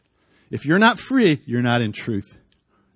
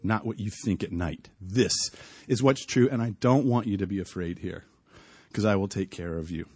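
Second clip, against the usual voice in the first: voice of God; 6 semitones lower, 5 dB quieter than usual. Retold or imitated. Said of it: "And God was saying".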